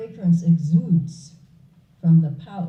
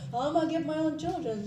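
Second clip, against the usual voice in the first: bewildered renunciate; 8 semitones higher, 7 dB quieter, much faster than usual. Acted. Renunciate asks, teller amused.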